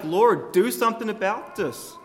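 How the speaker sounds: lightly voiced exasperated sister; frustrated plea. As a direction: act out Martha fed up and demanding help. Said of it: "she's like".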